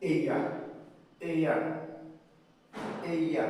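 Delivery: এইয়া as one smooth e-i-a glide; triphthong demo. Shown as a demonstration. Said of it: "এটার উচ্চারণটা হবে". (ট্রিপথং এইয়া মসৃণ করে)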